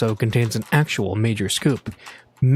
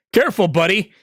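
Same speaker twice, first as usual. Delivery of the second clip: higher, louder warning shout; 8 semitones higher, 5 dB louder than usual. A narrator's reading. Driver shouting at a man in the street, loud warning. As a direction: yell out the window at a pedestrian. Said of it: "he shouted at someone".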